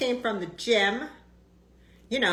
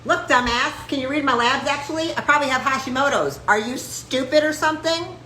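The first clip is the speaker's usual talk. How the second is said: brisk mock scolding of the doctor; mock telling off; 5 semitones higher than usual. Coaching patients on how to confront their doctor, mock scolding. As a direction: snap at the doctor, half joking. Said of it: "You go like this".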